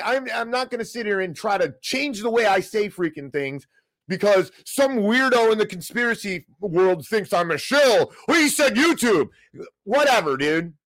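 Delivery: angry rant. Real, not acted. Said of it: "End of that rant".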